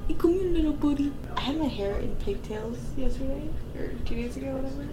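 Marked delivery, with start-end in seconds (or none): 0.1-1.1 pretend coaxing. Coaxing an imagined pet lizard.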